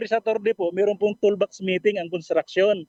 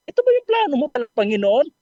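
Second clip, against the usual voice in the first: emotional prayer; 5 semitones higher, 3 dB louder than usual. Retold or imitated. Quoted heartfelt prayer to God.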